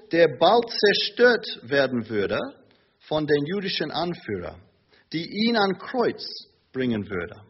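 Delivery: ordinary talk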